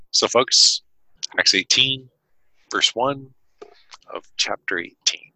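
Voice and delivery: measured Bible reading, paced; steady public reading of Acts; scripture reading. Acted. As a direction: read the passage to listeners. Reads scripture aloud.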